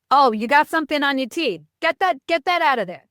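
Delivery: put-on a light New York accent, blunt and direct; blunt New Yorker pointing out food in the teeth, New York accent. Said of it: "which is why I did the accent".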